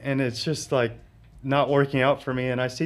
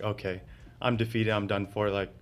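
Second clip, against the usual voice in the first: soft, resigned mutter of defeat; giving up quietly, a mild sigh in the voice; 4 semitones lower, 8 dB quieter than usual. Retold or imitated. To the man in the garage, softly resigned. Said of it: "I knew I was defeated already".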